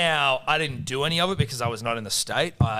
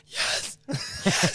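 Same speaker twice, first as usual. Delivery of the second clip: खोई हुई आवाज़ की नकल replaced; 8 semitones higher than usual. Retold or imitated. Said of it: "Streets is going".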